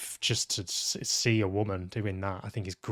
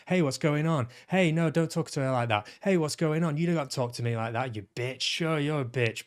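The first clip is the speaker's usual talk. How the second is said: higher-pitched imitation of a bickering row; mock shouting; 4 semitones higher than usual. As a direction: parody actors squabbling, only half shouted. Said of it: "it was just constant shouting".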